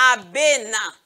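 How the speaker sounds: "abena" in three even beats, a, be, na; syllable by syllable. Shown as a demonstration. Teacher introducing a cut word, "abena" beat by beat. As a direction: lightly separate the syllables of "abena". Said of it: "qu'on a coupé en syllabes".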